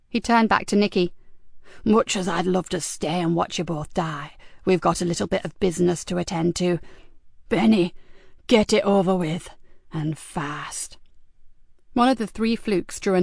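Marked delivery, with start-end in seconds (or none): 1.9-11.0 lower, cool menacing voice; a hint of a sneering gangster; Cox, menacing villain. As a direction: calmly order the killing. Cox's sneering orders.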